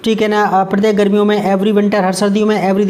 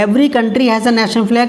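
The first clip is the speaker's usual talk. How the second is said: slow, careful dictation of the example sentence; slow read-aloud; slower than usual. Shown as a demonstration. Teacher reading the example sentence slowly to students. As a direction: read it out word by word for the class.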